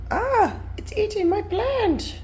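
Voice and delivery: high alarmed cry; startled yelp at the pet; surprised. Real, not acted. Sudden alarm at cat.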